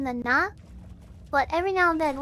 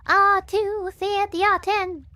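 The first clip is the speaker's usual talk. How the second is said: Southern Baptist preacher; 2 semitones higher, 4 dB louder, much slower than usual. Shown as a demonstration. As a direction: preach it like a wound-up Baptist zealot. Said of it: "like, preacher voice".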